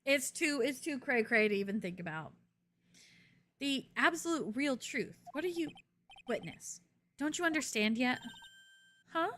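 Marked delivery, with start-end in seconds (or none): 3.6-9.3 cool, pressing courtroom delivery; lightly voiced prosecutor. Prosecutor warning the witness, coolly pressing.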